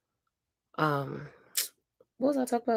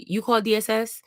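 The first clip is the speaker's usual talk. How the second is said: mimicked rude phone greeting, slightly raised pitch; attitude; 4 semitones higher than usual. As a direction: imitate a caseworker answering with attitude. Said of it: "she had a attitude".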